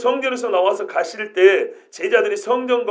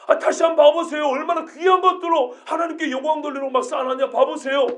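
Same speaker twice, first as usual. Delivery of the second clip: higher voice, excitedly agreeing; higher excited indignant disciple; eager disciple; 4 semitones higher than usual. Retold or imitated. Another disciple joins protest.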